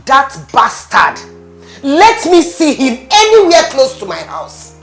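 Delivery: enraged father swearing revenge; angry. Acted. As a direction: spit out the anger at him. Furious father threatens son-in-law.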